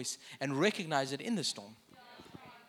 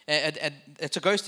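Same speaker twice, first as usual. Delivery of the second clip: louder, stuttering terror; stammering in fear; 5 dB louder than usual. Acted. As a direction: stammer the first sound, then blurt it out. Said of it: "cried out in fear".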